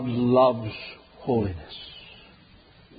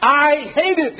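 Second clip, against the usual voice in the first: God's justice speaking; 10 semitones higher, 4 dB louder than usual. Acted. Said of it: "His justice demands".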